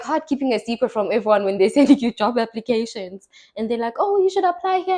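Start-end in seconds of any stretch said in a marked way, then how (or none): 4.0-5.0 high, chirpy imitation of helpful friends. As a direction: mimic well-meaning friends pushing a job. People sending her job applications.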